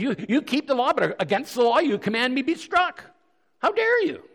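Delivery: high-pitched acted outrage; affronted protest peaking at the end; indignant retort. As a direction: accuse them of hypocrisy, voice climbing. Paul's indignant retort, retold.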